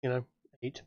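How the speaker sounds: talking with a mouthful of chicken; chewing while speaking; eating crunchy fried chicken. Real, not acted. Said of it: "I'm eating chicken tendies".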